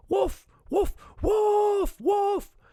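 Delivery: high, loud shouted cry for help; shouting. A narrator's reading. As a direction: call out toward the village at the top of your voice. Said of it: "started shouting towards the village".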